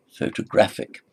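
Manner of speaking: photographic stressed on GRAPH; pho-to-GRAPH-ic, third syllable strong. Shown as a demonstration. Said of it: "So it's the stress".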